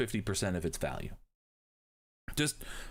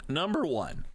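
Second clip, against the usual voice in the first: a real pubescent crack on the word; sudden squeaky break in the voice; 4 semitones higher than usual. Real, not acted. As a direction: voice cracks upward mid-phrase. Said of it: "Did you hear me go through puberty again".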